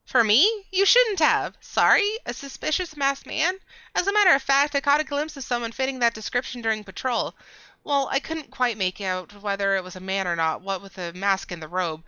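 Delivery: very high nasal delighted voice; squeaky nasal character. Acted. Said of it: "speaking in the nasally voice".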